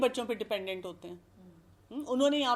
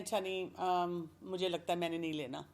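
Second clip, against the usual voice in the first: hesitant polite refusal; 4 semitones lower, 6 dB quieter than usual. Pretend. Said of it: "پھر آپ کہتے ہیں".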